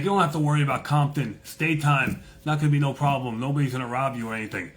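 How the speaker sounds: high-pitched imitation of a Jamaican driver; Jamaican man. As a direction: reassure your passenger in a put-on Jamaican voice. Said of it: "Jamaican guy".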